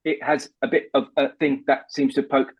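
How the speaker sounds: a loose attempt at a Texan accent; half-Texan accent, mostly the speaker's own. Shown as a demonstration. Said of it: "okay, that's not Texan, that's more mine".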